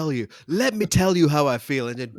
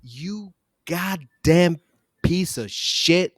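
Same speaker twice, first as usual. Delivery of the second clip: hammed-up furious boss rant, slow and raised; 3 semitones higher, 4 dB louder, slower than usual. Jacinda Ardern tearing into her minister, hammed-up furious swearing. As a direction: chew him out like a raging prime minister.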